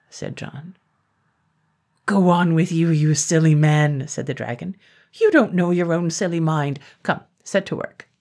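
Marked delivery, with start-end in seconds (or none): 2.1-8.1 loud, scolding dragon; impatient dragon brushing him off. Acted.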